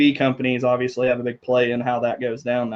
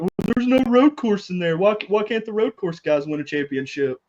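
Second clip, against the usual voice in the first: put-on New Zealand accent; 7 semitones higher than usual. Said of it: "Was that your New Zealand accent".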